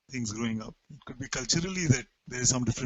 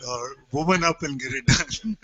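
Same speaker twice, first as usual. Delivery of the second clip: laughing through a playful correction; 5 dB louder than usual. Real, not acted. Playfully correcting the man-up advice, laughing. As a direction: giggle it out as a joke.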